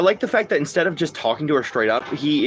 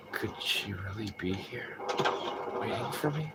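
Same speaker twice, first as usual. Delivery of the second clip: slow, much softer, shaky then confused; nervous then puzzled; 3 semitones lower, 14 dB quieter than usual. Shown as a demonstration. Streamer showing how James's line should sound, nervous and puzzled. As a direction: ask it haltingly, unsure she exists. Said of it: "So you gotta be like".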